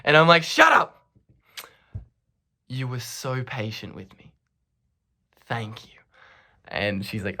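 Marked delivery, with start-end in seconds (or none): 0.4-1.0 high, sudden shout; hammed-up quarrel shout; mock yelled retort. 2.7-6.0 soft, hushed gratitude; gentle retold appreciation; tender thanks. Acted tender thanks after shouting.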